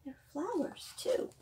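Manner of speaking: soft whispered wonder; the storyteller shows the children the flowers; hushed whisper. Acted. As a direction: whisper it like a secret. Hushed reveal of new growth.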